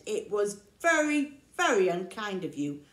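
forest animals scolding the bear. Acted.

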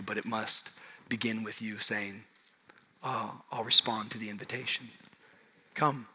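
gentle hushed appeal to the congregation; soft intimate preaching. Acted. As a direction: draw them in close, hushed.

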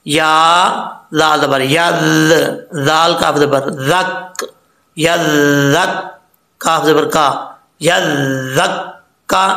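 letter by letter up to a slow यज़क्कारू; careful spelling-out. Shown as a demonstration. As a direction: hold each doubled sound of यज़क्कारू. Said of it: "इसको अच्छे तरीके से पढ़ लेना चाहिए".

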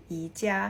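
"อีจ้า" said as Mandarin yi-jia; "อีจ้า" in Chinese tones; Mandarin reading. Shown as a demonstration. Teacher giving the Chinese name for IKEA, Mandarin tones. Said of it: "อันนี้อ่านว่า".

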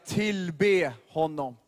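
drawn-out. Acted. Preacher dwells on worship.

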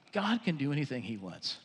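soft, low and reverent; quietly marvel, dropping well down; hushed awe. Real, not acted. Preacher reflects on what God can do, hushed.

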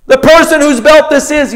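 slow, high, loud prophetic proclamation; solemn booming prophet voice; prophet's pronouncement. Acted. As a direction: draw out each word like an oracle. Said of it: "he then speaks".

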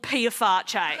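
pie face said as "Pia Farche", pee-a-far-chay; absurd mispronunciation. Shown as a demonstration. Comic ridiculing misreadings, Pia Farche as pee-a-far-chay. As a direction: say Pia Farche like fancy foreign words. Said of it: "pie face is actually called".

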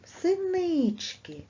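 Синички slow, high, the stressed си stretched and lifted; stress on second syllable. Shown as a demonstration. Teacher shows second graders the stress, slow and high. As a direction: drawl Синички, leaning hard on the second syllable. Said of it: "Наголос падає на другий склад".

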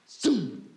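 quick vocal zoom; whoosh imitation. Comic telling of Lulu running the red light, whooshing imitation. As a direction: mimic a car whooshing past.

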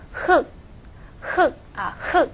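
흙 pronounced as 흑, ㄹ left silent; right-side consonant. Shown as a demonstration. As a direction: end 흙 on a stopped k. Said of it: "读这个右边的기억". (흙只读右边的ㄱ收音)

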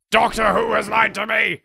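high, loud mock-betrayed cry; hammed-up shout of betrayal; mock outrage. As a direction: wail it out in exaggerated indignation.

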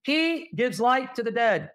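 "He gives life to the dead" said slowly, each word weighed; slow, weighty emphasis. Shown as a demonstration. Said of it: "Pay attention".

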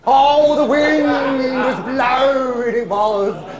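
high, slow, drawn-out mock lament; mock dramatic wail. Old pro recalling the stormy night, hammed-up wail. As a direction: stretch it out like a ghost story. Comic retelling of a bad night.

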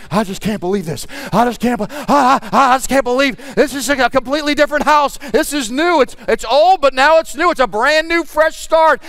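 rising, breathless disbelief; a husband overwhelmed by the new house; amazed husband. Retold or imitated. Husband seeing his house, stammering amazement. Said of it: "the husband, is like".

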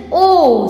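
"O" held as a long vowel; vowel sound demo. Shown as a demonstration. Teacher showing what sound it will produce, held vowel. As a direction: hold "O" as a letter sound. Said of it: "What it will produce?".

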